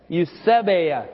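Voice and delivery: "Eusebeia" said clearly for a group to repeat, stress on "seb"; pronunciation model. Shown as a demonstration. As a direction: lead the room in saying "Eusebeia", leaning on "seb". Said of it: "Let's all say that".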